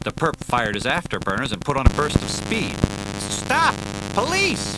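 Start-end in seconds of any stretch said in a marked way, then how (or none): 3.2-4.8 high, loud call to stop; shouting again. Acted. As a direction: yell after the perp once more. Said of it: "he tried again".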